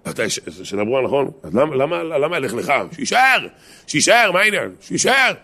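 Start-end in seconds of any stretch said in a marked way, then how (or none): 2.9-5.3 very high, insistent outburst; animated, indignant-style exclamations; exclaimed protest. Acted. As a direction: argue it like it's obvious, pitch shooting up. Arguing that Abraham should stay.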